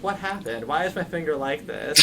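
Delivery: put-on confused little boy. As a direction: wonder aloud like a small child. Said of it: "he's like".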